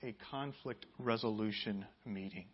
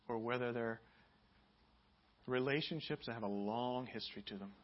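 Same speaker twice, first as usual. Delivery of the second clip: prayer; 2 semitones lower than usual. Acted. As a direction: pray gently over the room. Leads prayer.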